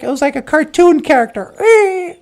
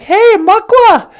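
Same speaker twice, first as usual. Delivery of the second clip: higher, boastful show-off voice; boastful beaver; 5 semitones higher than usual. Acted. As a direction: brag about the tail to the bear. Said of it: "He was all like".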